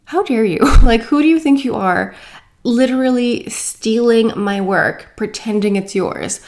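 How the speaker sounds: indignant retold scolding, punched at the start; mock confrontation, easing off at the end; retold angry outburst. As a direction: tell off the thief, reenacting the outrage. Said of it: "I was so angry".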